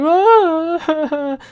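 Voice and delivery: high, badly faked crying wail; a hammed-up imitation of a mother's sob. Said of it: "that's a bad impersonation".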